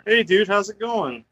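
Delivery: thin headset mic sound; talking through a headset mic; bluetooth headset mic. Real, not acted. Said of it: "Are you on your headset again".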